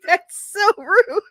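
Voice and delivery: high, drawn-out comic protest; squeaky-high affront; mock offended. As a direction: whine at the insult, slow and high. Offended retort to her son.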